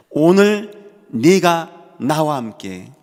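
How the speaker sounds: loud, very slow, drawn-out words; solemn scripture declamation. Acted. Preacher declaiming Jesus's promise to the man beside him, solemn and loud. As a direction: proclaim each phrase with long, weighty pauses.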